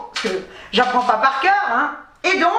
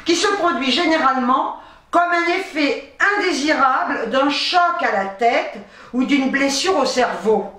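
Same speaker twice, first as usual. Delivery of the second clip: raised, measured reading voice; reading aloud. Real, not acted. Vlogger reads copy-pasted research to viewers, reading aloud. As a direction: read out a medical definition.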